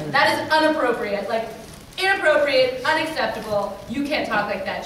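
firm, loud reprimand that eases off; mock scolding. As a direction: imitate a protector telling someone off. Friend scolds threatening fan.

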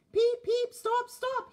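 high, loud panicked peeping; alarmed whistle. A narrator's reading. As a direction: call out for them to stop. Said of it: "he whistled".

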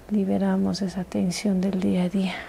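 gentle soothing whisper; intimate whisper. Acted. ASMR massage, whispered guidance.

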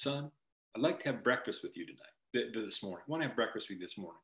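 soft, quick, understated invitation; gentle fatherly coach. Retold or imitated. Coach invites his player to breakfast, gentle and soft.

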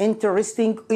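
interesting as intristing, middle e dropped; clipped intristing; light pronunciation. Shown as a demonstration. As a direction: say interesting in three quick syllables. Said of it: "يكون خفيف مثل interesting".

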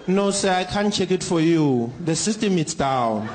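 lightly voiced call-centre agent, unhurried; a hint of a bored phone agent reading the script. Agent Doris tells the caller the system is down, a light deadpan.

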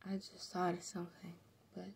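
soft unvoiced whisper. Real, not acted. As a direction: whisper the idea to yourself. Sudden idea, aside.

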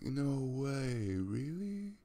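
high, drawn-out mock gratitude fading into a whisper; mock gushing surprise. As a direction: play up your own touched surprise, then whisper the thanks. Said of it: "And I was like".

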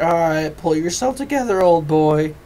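buck yourself up like a cartoon sponge; SpongeBob line. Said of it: "a line from SpongeBob when he's crying".

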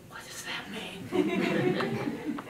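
put-on small child voice. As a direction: ask innocently like a small child. Granddaughter asking at bedtime.

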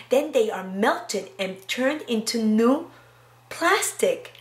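slow storybook read, evenly paced; reading to children. Acted. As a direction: read it aloud to a class. Reads picture book aloud.

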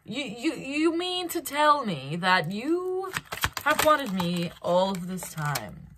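a woman doubting her ears, mock concern; concerned mock disbelief. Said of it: "She's like".

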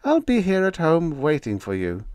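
high, loud, forceful wife's voice; a determined woman overruling her man; firm wife scolding her husband. A narrator's reading. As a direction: push him out the door to duty. Wife voiced sending men off.

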